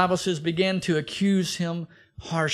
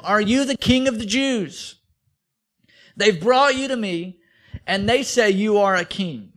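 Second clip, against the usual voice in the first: Pilate questioning; 4 semitones higher, 4 dB louder than usual. Acted. Preacher voices Pilate questioning Jesus.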